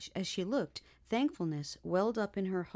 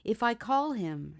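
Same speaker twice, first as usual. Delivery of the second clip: shuddering fear; 4 semitones higher, 5 dB louder than usual. Acted. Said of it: "shuddered Much Afraid".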